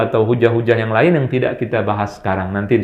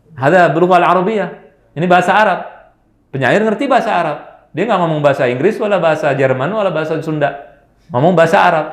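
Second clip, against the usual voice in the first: higher, animated insisting; emphatic insistence; 5 semitones higher, faster than usual. Real, not acted. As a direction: press the point hard.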